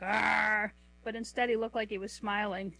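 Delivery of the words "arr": small mock dinosaur growl, drawn out; imitated T. rex roar. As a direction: do a half-hearted open-mouthed "arr". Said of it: "with his mouth open like".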